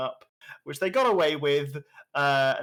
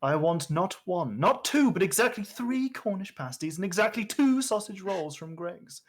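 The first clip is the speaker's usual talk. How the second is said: DM voice; 5 semitones higher than usual. Acted. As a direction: count it out like a dungeon master. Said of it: "Your most D M voice".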